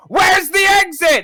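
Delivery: very high, loud yell; frantic shout. Acted. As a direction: call out urgently while fleeing. Raider calls out while fleeing.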